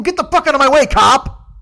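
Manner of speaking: high, loud, raging shout; road-rage scream at the cop; furious yell at cop. Retold or imitated. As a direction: blow up at the cop blocking you. Yelling at the cop in traffic.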